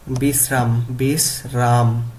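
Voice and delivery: বিশ্রাম modelled as bis-ram, then slowly split; pronunciation drill. Shown as a demonstration. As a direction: sound out বিশ্রাম, stretching the repeat. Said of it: "উচ্চারণ করতে হবে এইভাবে".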